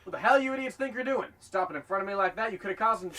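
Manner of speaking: loud, high, angry yell; furious shout. Acted. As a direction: chew out the idiots who cut you off. Driver nearly hit, furious.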